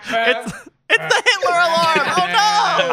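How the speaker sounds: high, loud alarmed cry; mock panic. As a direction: yelp it out in fake alarm.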